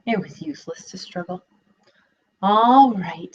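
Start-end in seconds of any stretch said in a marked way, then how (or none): 2.4-3.3 sighed. Acted. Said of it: "sighed the piglet".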